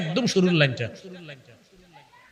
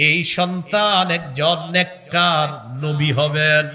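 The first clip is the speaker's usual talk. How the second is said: drawn-out sing-song recitation and translation; measured sermon chant; melodic preaching; slower than usual. Acted. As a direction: intone each point, stretching the endings. Intones verse and translation.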